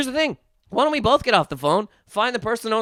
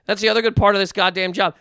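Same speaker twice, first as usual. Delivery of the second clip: ordinary delivery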